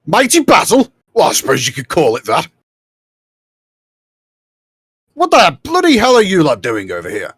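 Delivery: high, loud, quick challenge; gruffly incredulous officer. Acted. Army leader questioning intruders, incredulous and loud. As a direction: challenge the strangers in disbelief.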